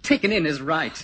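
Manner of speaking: "Taken in" hit hard and sneering; bitter mocking stress on "Taken"; sardonic emphasis. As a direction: throw his words back at him with scorn. Mockingly echoes the tutor's words.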